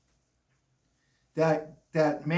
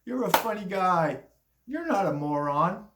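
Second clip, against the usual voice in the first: mocking laugh, then condescending; mock press laughter. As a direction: fake hearty laugh that fades into patronizing teasing. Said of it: "I remember the press laughing".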